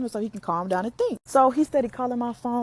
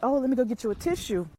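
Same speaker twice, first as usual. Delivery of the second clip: fake consoling; 3 semitones higher, faster than usual. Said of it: "acted like I was consoling him".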